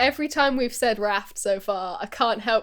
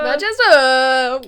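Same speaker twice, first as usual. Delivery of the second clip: mock Manchester; 6 dB louder, much slower than usual. Shown as a demonstration. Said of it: "He's from Manchester".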